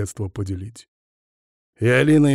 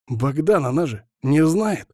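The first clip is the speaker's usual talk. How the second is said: panicking; 5 semitones higher than usual. Acted. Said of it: "паниковал Капа".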